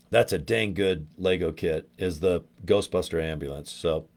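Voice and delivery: talking through hiccups; hiccupy, interrupted speech. Real, not acted. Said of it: "got the hiccups".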